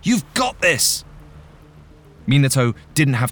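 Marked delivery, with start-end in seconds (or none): 0.0-1.0 high, stretched-out cheering yell; encouraging shout. A narrator's reading. Catcher cheering his friend on, encouraging shout. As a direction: yell it slowly and high to spur him on. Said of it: "he shouted".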